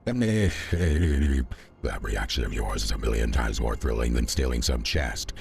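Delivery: lightly voiced arrogant overlord; a hint of a grand villain voice; booming arrogant alien overlord. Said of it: "I am the dumb overlord voice".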